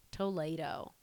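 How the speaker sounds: Toledo said the Spanish way, toh-LAY-doh; Spanish-sounding Toledo. Shown as a demonstration. Joking about her own habit of saying Toledo, toh-LAY-doh with a Spanish lilt. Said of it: "I've been saying it like Toledo".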